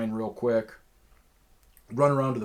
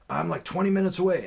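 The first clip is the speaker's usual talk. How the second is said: higher, louder and fast, carefree; imitating the seller; 10 semitones higher, 9 dB louder, faster than usual. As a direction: rattle it off like a careless dude. Seller's reply voiced in story.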